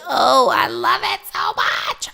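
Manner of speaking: loud, joyful cry of love; an exclamation of pure joy; delighted outburst. Real, not acted. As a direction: burst out with real delight. Delight at her affirmation.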